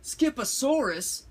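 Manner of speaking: high incredulous question; declared. A narrator's reading. Mama coming into the room, high questioning declaration. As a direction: jump up in pitch on the word. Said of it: "declared Mama Junebug Jones".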